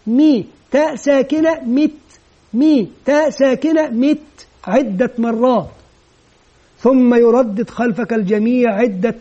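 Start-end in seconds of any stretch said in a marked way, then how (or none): 0.1-4.5 "مي، تاء ساكنة، مت" spelled out piece by piece; measured drill of "مت" with pauses between parts; model pronunciation. Shown as a demonstration. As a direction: chant the spelling evenly, ending on a crisp "مت". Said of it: "تقدم أنت النطق النموذجي".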